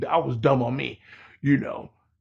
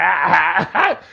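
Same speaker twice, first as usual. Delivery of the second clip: retold laughing. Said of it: "I couldn't help but laugh".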